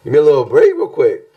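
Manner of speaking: 높은 톤으로 애원하듯; high pleading. Retold or imitated. Continuing acted plea.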